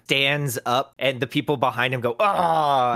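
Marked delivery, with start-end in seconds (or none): 2.2-2.9 higher drawn-out "ahh"; mock groan of a blocked crowd; crowd's ah. People behind a man whose view is blocked, crowd's ah.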